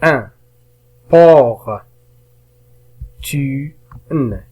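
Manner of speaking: "un", "Por", "Tu", "N" each said separately; teacher isolating "un", "Por", "Tu", "N"; syllable by syllable. Shown as a demonstration. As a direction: sound out "un", "Por", "Tu", "N" with long pauses. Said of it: "المقطع الأول".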